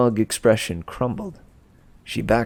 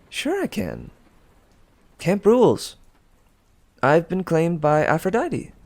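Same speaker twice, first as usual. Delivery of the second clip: smug confidence; 7 semitones higher than usual. Acted. Piper taunts Drew, confident.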